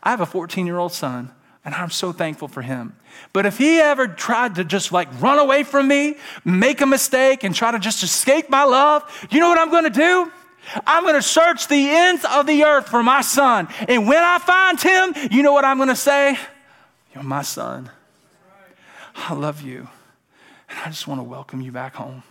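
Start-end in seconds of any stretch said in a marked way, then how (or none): 3.3-16.4 high, loud, full-force preacher's voice; impassioned preaching. Real, not acted. Preacher vowing to search for his son, loud and urgent. 17.1-22.2 tender father. Acted. Father welcoming his runaway son home, soft and tender.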